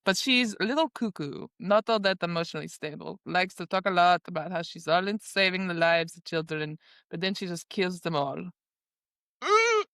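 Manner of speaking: lightly put-on Russian accent. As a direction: gossip in character with a Russian accent. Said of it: "I should be doing this in my Russian accent".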